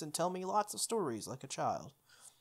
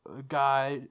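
unvoiced, louder breathy punch; whispered aside; 5 dB louder than usual. Real, not acted. Player whispering a joke while reading the construction line.

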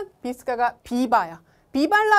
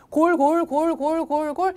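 goal call; 4 semitones higher, 3 dB louder, slower than usual. Shown as a demonstration. Commentary reading.

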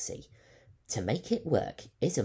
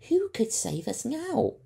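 high, louder hopeless student voice; doubtful Leica; 7 dB louder than usual. Acted. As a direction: cut in without hope. Leica despairs.

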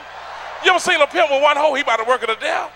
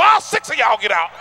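shouting. Retold or imitated. Cop orders them out.

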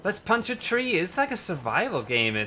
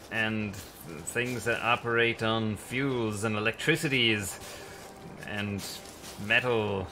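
mock-solemn speech; 5 semitones lower, slower than usual. Mock-solemn speech about industrialising nature.

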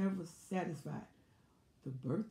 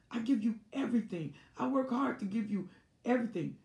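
aggrieved complaint; 6 semitones higher, faster than usual. Retold or imitated. Narcissist's loud fake grievance.

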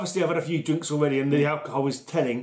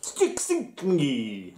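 mock Slovenian accent; 2 semitones lower, much slower than usual. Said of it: "I'm making up my own Slovenian words now".

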